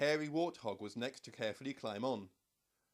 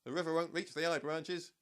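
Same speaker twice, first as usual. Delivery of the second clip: higher, loud call from above; 5 semitones higher, 5 dB louder than usual. A narrator's reading. Monkey calling the animals up, loud. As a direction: shout down from the treetops. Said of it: "called the monkey from the treetops".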